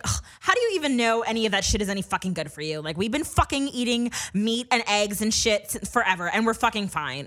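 imitating an indignant, defensive mother; angry mom. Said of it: "she was just angry".

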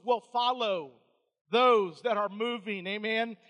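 loud, rhythmic preacher cadence; punchy pulpit declaration; emphatic preaching. Real, not acted. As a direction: drive each phrase home to the congregation. Preaches at full force.

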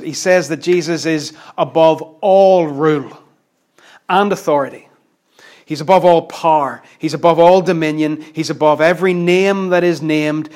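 stressed, building list of "above all"; emphatic. Retold or imitated. Preacher showing how Paul puts it, emphatic. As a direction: punch each item Jesus is above. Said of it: "verse twenty-one is wonderfully emphatic".

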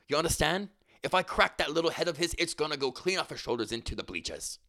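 roughly attempted Irish accent; McGregor in Irish accent. Reading McGregor's taunts about Mayweather, attempted Irish accent. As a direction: boast in a makeshift Irish accent. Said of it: "I wanna read this, like, in his".

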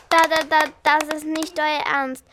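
stockend, hörbar gespielte Angst; ängstlich stotternd. Acted. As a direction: stottert vor Angst über die Brücke. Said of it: "stotterte Pupsi". (Pupsi stottert ängstlich vor dem Balancieren)

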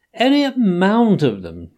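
high, loud sobbing plea. Acted. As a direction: sob it out high. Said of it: "sobbed Toad".

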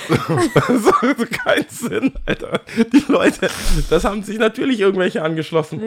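high, laughing disbelief; laughing while telling. Real, not acted. Telling a friend about the ridiculous group at the club, laughing. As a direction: laugh through the words at the absurdity. Laughing retelling of the absurd crowd.

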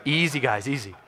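soft coaxing call; calm them down quietly; gentle easy. Shown as a demonstration. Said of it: "real gentle".

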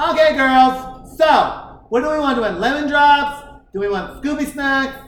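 put-on bossy party girl. Teller imitating the girl leading her friends at the bar, lightly voiced. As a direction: mimic her rallying the girls to order. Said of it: "leading the church".

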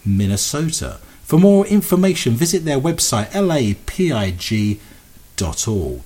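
smooth station announcement read; radio announcer. Acted. Reads radio show announcements.

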